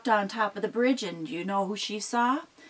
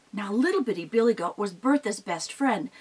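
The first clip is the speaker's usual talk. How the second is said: plain reading voice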